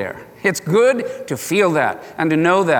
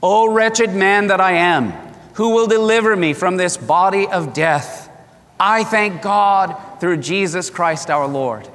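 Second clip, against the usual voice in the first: slow, solemn group reading of scripture; slow congregational scripture reading; read aloud together. Shown as a demonstration. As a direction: read it out loud, slowly, as one voice. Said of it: "Let's read this out loud together".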